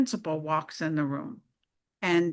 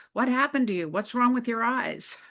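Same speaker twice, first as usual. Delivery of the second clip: higher, startled questions from a class; surprised students; 6 semitones higher than usual. Retold or imitated. High school students startled by their teacher's eyes, surprised. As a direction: blurt it out in surprise.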